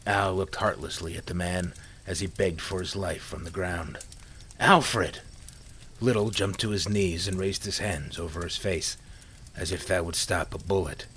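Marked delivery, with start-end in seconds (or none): 4.6-5.2 loud pleading shout; desperate cry. A narrator's reading. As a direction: cry out the name in terror. Begging for his life.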